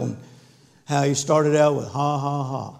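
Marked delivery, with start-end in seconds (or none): 1.9-2.7 mock dry ha ha, fading quieter; a forced, dry fake laugh, trailing off. Imitating a preacher laughing at the devil, dry. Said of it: "about as dry as you can imagine".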